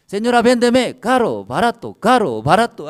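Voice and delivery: high, loud mimicry of children playing shop; niños jugando a vender. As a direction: call out like kids haggling at play. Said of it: "así, así juega". (voz de niños jugando a la tienda)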